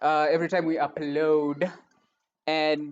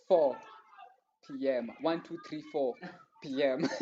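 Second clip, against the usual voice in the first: spaced out with pauses, lower and softer; deliberately clear; 3 semitones lower, 5 dB quieter than usual. Real, not acted. Host spelling out the show's start time, deliberately clear. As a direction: count it out carefully, word by word. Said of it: "I'm just making it clear".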